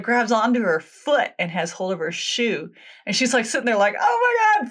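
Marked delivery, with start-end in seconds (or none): 4.0-4.7 high-pitched mock panic; freaking out. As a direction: imitate her freaking out, voice shooting way up. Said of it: "freaking out".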